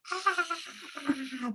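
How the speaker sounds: high, breathy mock scream of an audience; imitating a crowd scream. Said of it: "They scream like this".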